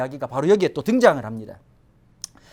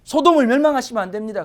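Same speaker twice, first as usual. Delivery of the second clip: louder, higher, insistent protest; forceful plea; 4 semitones higher, 6 dB louder than usual. Acted. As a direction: plead it forcefully as Abraham. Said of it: "강렬하게 얘기하는 거죠".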